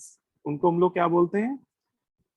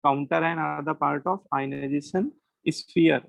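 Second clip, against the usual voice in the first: very slow, word-by-word dictation; 2 semitones lower, much slower than usual. Shown as a demonstration. Teacher dictating a definition to students, very slow. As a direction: read it out slowly to be copied down. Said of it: "ऐसे लिख लीजिएगा".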